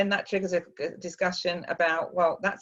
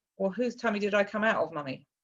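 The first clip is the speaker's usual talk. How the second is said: put-on flat, deadpan tone; 2 semitones higher than usual. Retelling her six-year-old daughter's question: imitating a deadpan question.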